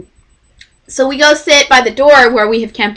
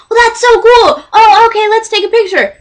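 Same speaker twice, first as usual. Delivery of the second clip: bubbly high voice; 11 semitones higher, 3 dB louder than usual. Retold or imitated. Quoting Kurt.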